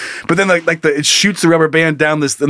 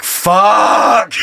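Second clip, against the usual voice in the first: higher, drawn-out mock curse; resentful curse; 7 semitones higher than usual. Resentful toilet seeing who opens the door, exasperated. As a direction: let out a long, fed-up curse.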